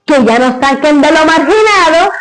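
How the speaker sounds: solemn recited verse; grand poetry declamation. Acted. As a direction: declaim it like a poem. Recites the father's poem.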